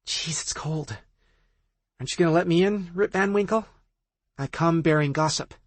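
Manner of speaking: high, chirpy teasing friend; impatient friend. Acted. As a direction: needle her to open the door.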